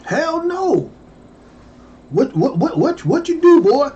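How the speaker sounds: high, falling hell no then sputtering whats; no dropping firmly, then what what what; flat-out hell no. Retold or imitated. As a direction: shut it down then stammer. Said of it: "This is what they say now".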